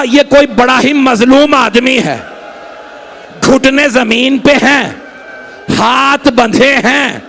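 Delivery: slow, sorrowful keening; grieving lament. Acted. Abbas describing the bound man to Husain, slow keening lament. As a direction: let the voice ache over each word.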